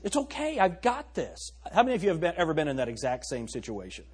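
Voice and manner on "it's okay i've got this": mock reassurance. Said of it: "I say".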